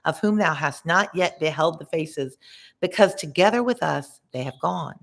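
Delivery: put-on measured reading of old verse; story narration. A narrator's reading. A reader voicing Dante for students, measured narration. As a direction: read the epic lines steadily to listeners. Reads Dante's Inferno aloud.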